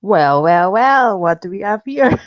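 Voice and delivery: sly "well, well, well"; villain line. Acted. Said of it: "are we saying that in posh".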